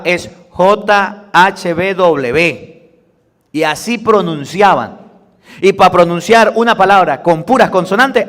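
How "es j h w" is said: J H W said letter by letter, very slowly; spelled-out name. Shown as a demonstration. Preacher showing the consonant-only name to the congregation, slowly. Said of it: "La palabra correcta no es Jehová".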